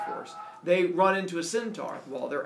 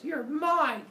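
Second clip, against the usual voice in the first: villain shout; 12 semitones higher, 4 dB louder than usual. Acted. Centaur voiced grabbing her.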